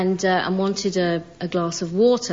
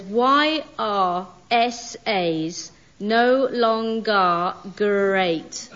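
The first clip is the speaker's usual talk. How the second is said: slow reading; much slower than usual. Shown as a demonstration. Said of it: "this text message that you've sent me, Simon, says".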